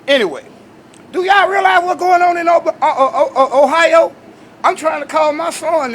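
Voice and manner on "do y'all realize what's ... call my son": high, loud outburst breaking into a laugh; incredulous rising shout; exclaiming. Real, not acted. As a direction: blurt it out, stumbling and laughing. Alarmed outburst about the spill.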